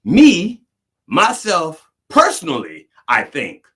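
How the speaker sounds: mocking, stress on "Me"; mocking comedian. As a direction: ham up the redundant "Me, myself, personally". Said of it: "you talk about redundancy".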